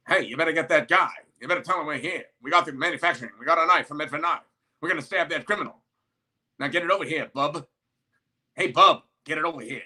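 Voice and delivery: fast, lightly voiced old-movie tough guy; fifties Hollywood persona. Mocking Elon as a fifties Hollywood tough guy, lightly voiced. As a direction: rattle it off like a fifties screen heavy, only half in character. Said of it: "those nineteen fifties Hollywood people have these personas".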